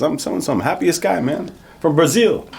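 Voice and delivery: imitated driver, pitched high and upbeat; excited Uber driver. Brazilian driver introduces himself to passenger, high cheery imitation.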